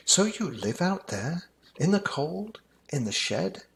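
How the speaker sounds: put-on high, wondering child voice; curious child. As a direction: ask like an amazed little kid. Child asks the mouse.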